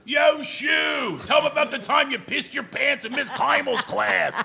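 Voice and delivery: rowdy friend heckling from the front row, shouting; drunk heckling friend. Retold or imitated. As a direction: yell it like a drunk buddy. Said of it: "They're, like, ripping on me".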